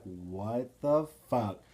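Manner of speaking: drawn out, word by word; stunned disbelief. Retold or imitated. Driver reacting to the truck at the bumper, stunned disbelief. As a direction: stretch each word slowly in disbelief. Retelling shock at tailgater.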